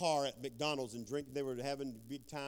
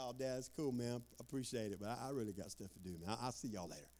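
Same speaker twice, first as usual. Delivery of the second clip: dismissive son; 5 dB quieter than usual. Retold or imitated. Son brushing dad off.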